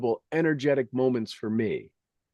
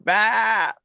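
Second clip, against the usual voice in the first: a higher mock "Bah!" like a sheep calling; sheep bleat; 8 semitones higher, 3 dB louder than usual. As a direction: bleat it out like Astrid greeting you. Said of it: "she'll go".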